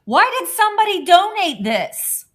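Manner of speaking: high, loud amazed outburst; incredulous exclamation. Real, not acted. Marveling at a donated gadget, loud exclamation. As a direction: cry out in delighted disbelief.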